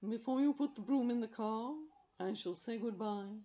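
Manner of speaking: solemn, loud farewell; grave. A narrator's reading. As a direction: say goodbye with weight. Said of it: "said Carbonel gravely".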